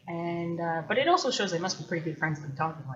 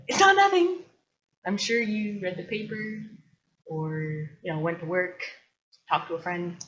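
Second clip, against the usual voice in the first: playful insistence, retold; emphatic protest; 4 dB louder than usual. Retorting to someone who said nothing, emphatic protest.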